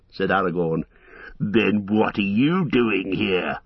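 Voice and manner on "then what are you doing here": slow, sneering orc voice; orc taunt. Acted. Orcs answer Aragorn from below, sneering slowly. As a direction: drag out the mockery. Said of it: "they answered".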